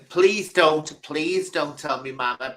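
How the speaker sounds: hammed-up begging not to tell mum; mock pleading. Somali lad begging the coppers, mock pleading. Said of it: "They would panic, begging".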